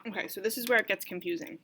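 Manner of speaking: talking while chewing a cookie; mouth full. Real, not acted. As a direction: speak through a mouthful of cookie. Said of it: "I have a cookie in my mouth".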